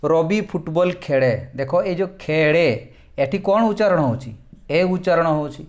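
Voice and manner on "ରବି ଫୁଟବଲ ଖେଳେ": slow, careful teacher read; slow example sentence. Shown as a demonstration. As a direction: read the example out slowly and evenly. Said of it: "ଦେଖ ଉଦାହରଣ".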